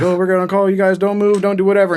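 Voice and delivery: high, urgent mock panic; panicked bystanders. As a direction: fuss over him like a panicking crowd. Panicked bystanders shouting orders.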